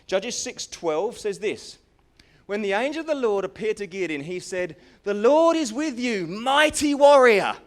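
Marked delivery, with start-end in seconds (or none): 2.5-7.6 booming angel proclamation. Acted. Preacher voicing the angel's call to Gideon, loud and grand.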